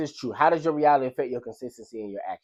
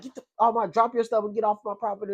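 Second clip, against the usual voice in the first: mock angry ranting; 7 semitones higher than usual. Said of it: "he was just talking crazy".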